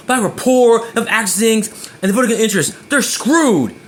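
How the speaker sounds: cold dismissive version; harsh blunt tone. Shown as a demonstration. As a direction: spit it out with scorn. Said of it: "If I say it like that".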